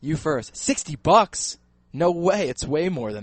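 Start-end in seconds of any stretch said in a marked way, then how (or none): 0.6-2.5 slow, rising disbelief; incredulous. Real, not acted. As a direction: drag it out in disbelief. Surprised at low phone bill.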